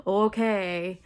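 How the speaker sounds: a breathy, doubtful whispered "Okay.". Retold or imitated. New mom whispering back to her doctors, whispered. Mock-skeptical reply to doctors.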